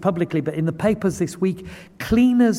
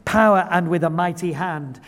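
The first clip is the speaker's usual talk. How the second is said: Moses pleading; 3 dB louder than usual. Retold or imitated. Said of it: "Moses pleaded with the Lord".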